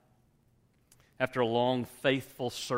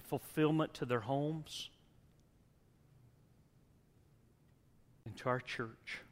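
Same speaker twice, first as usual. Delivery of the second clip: closing prayer; 2 semitones higher than usual. Acted.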